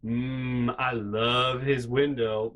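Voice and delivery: slow, creepy murmur. Pretend. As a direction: say it like a creepy admirer. Imagined creepy neighbor-watcher line.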